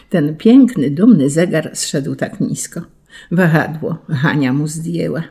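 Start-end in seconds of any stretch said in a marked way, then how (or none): none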